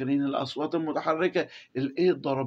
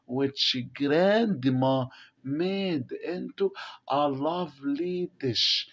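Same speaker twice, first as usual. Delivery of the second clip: slow reading aloud; much slower than usual. Shown as a demonstration. Teacher reading the text to the class, very slowly. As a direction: read each English word very slowly for the class.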